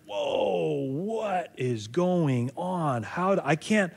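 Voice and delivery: a hint of helpless shock when life hits hard; overwhelmed. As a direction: breathe it out as if the ground just gave way. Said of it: "you're like".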